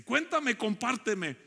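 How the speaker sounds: urgent retold entreaty, pitched well up; begging. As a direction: implore the child insistently. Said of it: "Elí le ruega a Samuelito".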